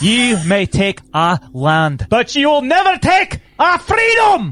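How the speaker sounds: high, swooping, soaring rousing cry. Quoting a rallying speech as William Wallace: William Wallace rallying speech. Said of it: "this is sounding like William Wallace".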